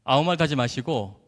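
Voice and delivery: low, measured mock-solemn announcement; grand promise. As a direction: declare it like a confident son. Proud son's grand promise to parents.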